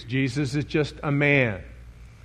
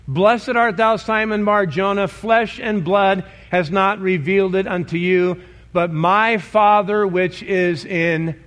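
raised proclamation; 3 semitones higher than usual. Acted. Jesus quoted, raised voice.

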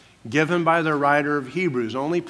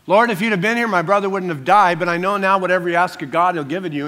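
insistent; 3 semitones higher, 4 dB louder, faster than usual. Shown as a demonstration.

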